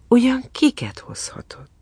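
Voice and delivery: high, half-whispered curiosity; intrigued hush; hushed wondering. A narrator's reading. Narrator wonders about arriving passengers.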